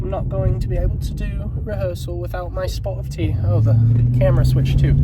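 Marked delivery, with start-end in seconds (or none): 0.0-3.4 hammed-up British accent, higher; mock posh British English. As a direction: play a tea-loving Brit. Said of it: "Why'd I do that accent?".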